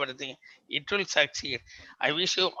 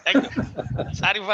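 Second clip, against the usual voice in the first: laughing; faster than usual. Real, not acted. Laughing after the Changutam joke.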